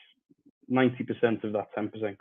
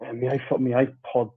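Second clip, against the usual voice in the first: muffled mic. Real, not acted. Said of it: "it does sound a little bit muffled".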